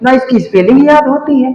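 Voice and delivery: put-on high, childlike protest; young students protesting to their teacher, voice pitched high; whiny kids. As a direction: play a small child overwhelmed by a big word. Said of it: "तो उन्होंने कहा".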